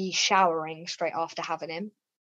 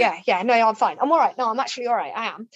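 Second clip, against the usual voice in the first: nervous; 4 semitones higher, 8 dB louder, faster than usual. Retold or imitated. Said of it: "he was really nervous".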